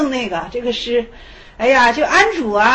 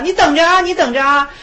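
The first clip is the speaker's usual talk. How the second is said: loud, higher mock threat; parting threat; 4 semitones higher, 5 dB louder than usual. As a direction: hurl a warning over your shoulder. Monk leaves with a threat. (走时高声撂下狠话)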